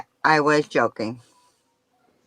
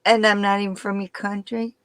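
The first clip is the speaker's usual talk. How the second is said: put-on higher, louder, putting on a New York accent; 5 semitones higher, 3 dB louder than usual. Guest jokes with the hosts about accents, putting on a New York accent. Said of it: "No, that sounded kinda good".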